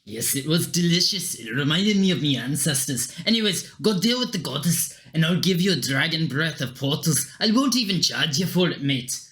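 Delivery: measured Scottish brogue; Scottish accent. Acted. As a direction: confide a problem in a Scottish accent. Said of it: "Don't know why he's Scottish".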